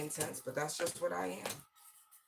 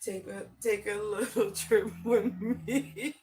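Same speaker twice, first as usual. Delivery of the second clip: mock invitation; 6 semitones higher, 5 dB louder than usual. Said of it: "that's why they like".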